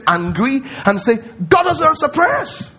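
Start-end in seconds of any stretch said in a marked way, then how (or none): 1.5-2.7 mock complaint. Preacher voicing frustrated believers.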